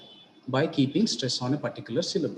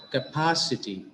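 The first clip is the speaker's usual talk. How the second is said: capacity with the second syllable PA accented; capacity stressed on pa, falling after it. Shown as a demonstration. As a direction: lean on the PA in capacity. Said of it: "it is the syllable pa".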